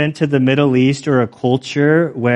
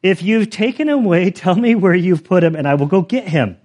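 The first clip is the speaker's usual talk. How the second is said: higher-pitched, strained politeness; trying to be respectful; 4 semitones higher than usual. Retold or imitated. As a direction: act out a carefully respectful plea. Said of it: "she's trying to be respectful".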